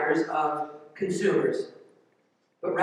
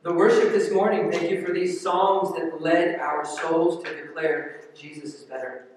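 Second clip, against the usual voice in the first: prayer; 3 semitones lower than usual. Acted. Pastor prays before sermon.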